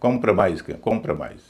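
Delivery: कॉम्प्रोमाइज stressed on first and last parts, weak "pruh"; light middle syllable. Shown as a demonstration. Teacher modelling the correct word, light middle in कॉम्प्रोमाइज. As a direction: reduce the middle of कॉम्प्रोमाइज to a schwa. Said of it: "बीच वाला हिस्सा हल्का बोला जाएगा".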